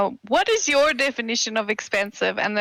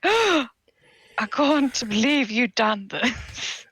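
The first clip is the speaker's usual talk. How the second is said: shocked disbelief; 3 semitones higher, slower than usual. Retold or imitated. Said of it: "he's like".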